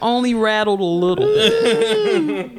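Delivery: chuckling through a joke about the missing bass; words bubbling with real laughter; laughing while talking. Real, not acted. Co-host joking about the track's thin bass, laughing.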